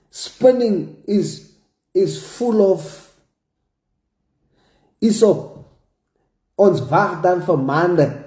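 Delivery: maande drawn out and leaned on; stress on maande. Retold or imitated. Quoting the impatient critics, maande stressed. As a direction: hit maande hard in the quote. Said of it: "Emphasis on the word maande".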